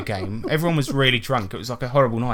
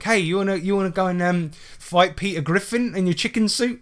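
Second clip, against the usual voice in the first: higher, mocking call from a window; retold shout; 6 semitones higher than usual. Friend Gary heckling a furry from hotel window, higher mocking call. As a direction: heckle him from two floors up. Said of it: "he shouts out the window".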